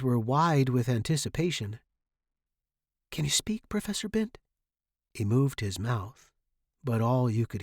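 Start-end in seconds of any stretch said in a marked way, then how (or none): 3.1-4.4 high, gentle question; gentle concern. A narrator's reading. Student to sick professor, gently concerned. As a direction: ask carefully in a raised pitch.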